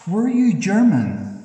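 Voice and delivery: loud high burst of a question. Real, not acted. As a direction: fire the question straight at the spirit. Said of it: "Again, sir, could you please answer".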